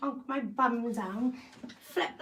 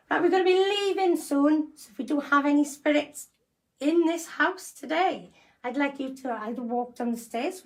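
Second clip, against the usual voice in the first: calling out. Acted. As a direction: project to the whole house. Calling out to spirits.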